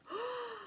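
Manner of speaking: soft high gasp; awed gasp. Real, not acted. Vlogger admiring glittery blush, awed gasp. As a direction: suck in a breath of wonder.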